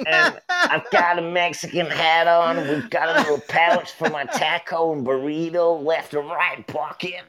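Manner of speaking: high, drawn-out mimic voice; exaggerated high-pitched impersonation; imitated friend. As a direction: do him high and slow, milking each word. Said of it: "He's like".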